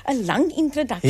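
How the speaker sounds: breathless after a long read; out of breath. Real, not acted. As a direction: talk while catching your breath. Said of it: "Are you out of breath already?".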